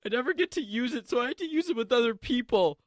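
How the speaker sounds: a playful British accent to ease a guest's nerves; British accent demo. Shown as a demonstration. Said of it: "Here, I'll do it with you".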